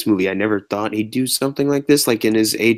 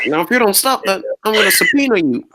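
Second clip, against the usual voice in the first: mock stern threat; 10 semitones higher than usual.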